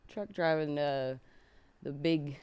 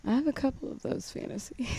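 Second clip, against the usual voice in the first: said again louder and clearer; louder repeat; 7 semitones higher, 5 dB louder than usual. Real, not acted. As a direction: repeat it so they can hear.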